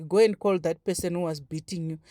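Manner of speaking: imitating an indifferent headmaster; understated, uninterested instruction; inattentive, dismissive. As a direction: toss off the order without real interest. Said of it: "ignorantly, not even, eh, being, like, attentive".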